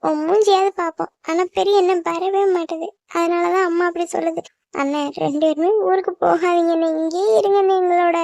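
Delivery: tearful, disbelieving appeal; tearful pleading. Acted. Younger sibling doubting the brothers' promise and begging, tearful. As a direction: beg through tears for them to stay. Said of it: "குட்டி, அழுகுறத நிறுத்து".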